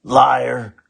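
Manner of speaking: ferocious. Acted. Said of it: "with her most ferocious glare".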